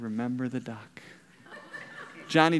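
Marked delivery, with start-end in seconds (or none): 0.0-1.0 hushed, low threat in his ear; menacing whisper. Retold or imitated. Sister threatening her brother in his ear, a low hushed menace. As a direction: lean in and breathe the threat softly. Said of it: "leaned over in Johnny's ear and said".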